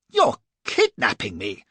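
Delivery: loud slow accusing yell. A narrator's reading. Flashman yelling at the captain, loud accusing yell. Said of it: "I yelled".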